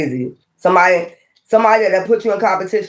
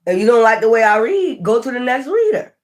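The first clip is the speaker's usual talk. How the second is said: higher, sassy go-elsewhere; dismissive brush-off; 5 semitones higher than usual. Real, not acted. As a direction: wave the critic off with sass. Dismissing a critical viewer.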